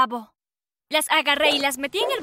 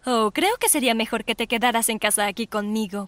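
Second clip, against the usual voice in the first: controlling mother voice; 3 semitones lower than usual. Acted. Mother keeps daughter home.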